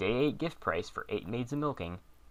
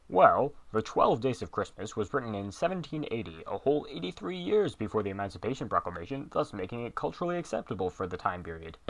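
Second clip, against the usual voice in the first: deep booming Lincoln voice. Acted. Fake Lincoln explaining history, pompous and booming. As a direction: lecture like a self-important president. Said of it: "That deep, booming voice".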